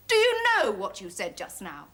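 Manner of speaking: indignant, imperious question; mounting outrage. Acted. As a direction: hit the opening hard, demanding an answer. Challenges again, more forcefully.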